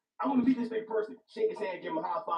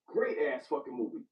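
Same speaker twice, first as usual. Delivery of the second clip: weighty, lower, savoring each word; low slow repeat; 8 semitones lower than usual. Shown as a demonstration. Friend repeating his verdict on the movie, low and slow. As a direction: drop the voice low and say it slowly. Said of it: "repeated deliberately lower".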